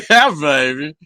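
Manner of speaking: hammed-up Austin Powers catchphrase. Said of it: "Austin Powers".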